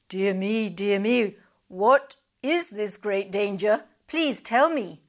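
anxious little crab voice; snappy clicking crab. A narrator's reading. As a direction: fret like a worried old crab. Crab alarmed.

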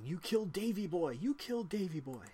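high, loud enraged yell; furious goblin shrieking at the party; screaming goblin. Acted. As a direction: scream it at the killer. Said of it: "screaming and yelling".

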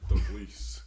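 Scottish accent. Shown as a demonstration. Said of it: "say it in a Scottish accent".

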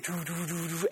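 low, soft "doo doo" imitating the music; imitated worship music. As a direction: mimic the band softly. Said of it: "you heard the music".

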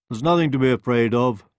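coaxing wolf. A narrator's reading. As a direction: soothe the frightened hen. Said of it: "said the wolf".

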